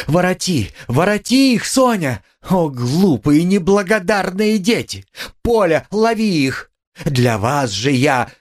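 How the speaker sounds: anguished pleading; desperate crying out. A narrator's reading. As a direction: chase and shout after them. Running, weeping after children.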